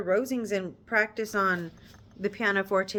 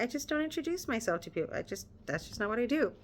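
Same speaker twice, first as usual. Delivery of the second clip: awkward Darcy; 3 semitones higher, 6 dB quieter, faster than usual. Retold or imitated. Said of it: "He's like".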